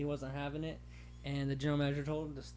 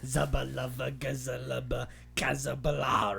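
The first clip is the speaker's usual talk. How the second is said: mock whisper; 6 dB louder, slower than usual. Mocking the candy joke.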